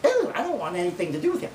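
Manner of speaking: imagined city slicker woman. Acted. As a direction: put on a scandalized city woman. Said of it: "a lot of city slicker women".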